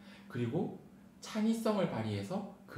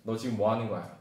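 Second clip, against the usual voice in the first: scolding teacher; 5 dB louder than usual. Acted. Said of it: "막 이렇게 했겠죠".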